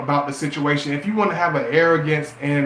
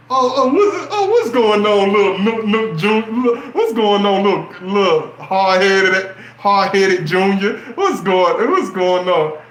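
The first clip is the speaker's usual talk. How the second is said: mock stepdad sweet-talking little Nook, loud and laughing; fake-friendly stepdad; 3 semitones higher, 5 dB louder than usual. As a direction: greet the kid like a slick phony. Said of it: "The one that's like".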